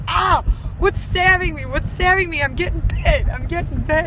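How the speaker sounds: high, loud panicked yelps, retold; mock freak-out. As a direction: act out a man's panic at a sudden sting, hammed up. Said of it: "he's freaking out and he's like".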